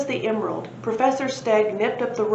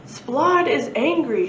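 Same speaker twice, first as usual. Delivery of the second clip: shout; 6 semitones higher, 3 dB louder, slower than usual. A narrator's reading. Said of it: "shouted the little thin man".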